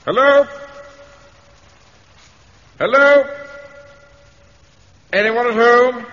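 loud, high call into an empty house. Acted. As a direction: call out to anyone inside. Calling out in dark house.

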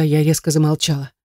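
usual speaking voice

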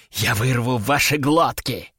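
hissed demoness threat; demonic whisper. A narrator's reading. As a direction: hiss it like a she-demon. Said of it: "прошипела демоница".

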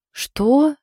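a sharp high startled «Что?»; surprised. A narrator's reading. Wife hearing the registry was paid off, surprised. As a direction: caught off guard, the pitch jumps up. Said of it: "удивлённо спросила Саша".

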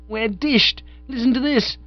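high, urgent alarm. A narrator's reading. Bertie breaking bad news to Bingo, high and alarmed. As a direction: cry out that all is lost.

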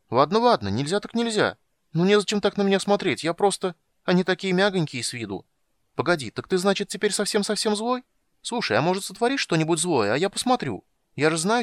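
high, quick and chirpy; bright young kender, very high. Acted. Tas voiced high, eager.

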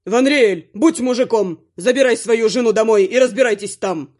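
loud gruff bark at the father-in-law; son-in-law barking in a put-on voice. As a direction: bark orders at him. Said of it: "рявкнул вредитель".

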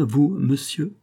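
plus aigu, doute et stupeur mêlés; un «vous, monsieur?» incrédule, la voix qui monte; doute et étonnement. A narrator's reading. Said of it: "accent de doute et d'étonnement". (André, stupéfaite devant Charny, doute et étonnement)

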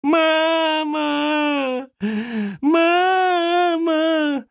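put-on high, loud wailing child crying for mom; a little kid howling for mama; bawling child. A narrator's reading. Boy bawls to his mother through the door, high wailing. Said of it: "трубный рёв".

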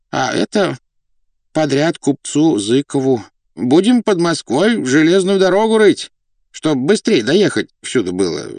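высокий голос князя, заискивающе объясняет; перечисляй дела, оправдываясь перед слугой; кроткий старый князь. Acted. (кротко, высоким голосом)

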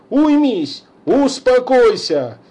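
high, loud angry outburst; exasperated shouting. Acted. Father chases son, exasperated angry shouting. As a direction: rage at the son and the psychiatrist.

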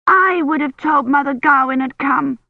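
high, loud shriek; upset girl shrieking the news; child's shriek. A narrator's reading. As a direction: shriek it at the mother. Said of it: "Agnes had shrieked".

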